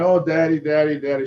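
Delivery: put-on a high, mildly tearful little girl's plea; father retelling his frightened daughter calling him; imitating crying daughter. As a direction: lightly voice a scared child calling for dad. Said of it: "My daughter's crying".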